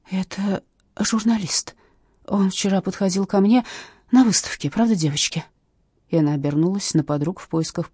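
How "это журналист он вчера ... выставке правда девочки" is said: unsure. Acted. Shaken witness unsure before the body. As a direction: squeeze the words out uncertainly. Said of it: "неуверенно выдавила".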